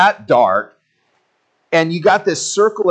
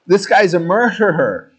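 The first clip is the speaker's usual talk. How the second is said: accusing islanders; 4 semitones higher than usual. Retold or imitated. Natives staring at Paul, mildly accusing him. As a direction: point the finger at him. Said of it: "they're like".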